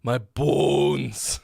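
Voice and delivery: drawn-out Midwest bones; Midwest accent. Retold or imitated. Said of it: "how hilarious it sounds to say bones if you're from the Midwest".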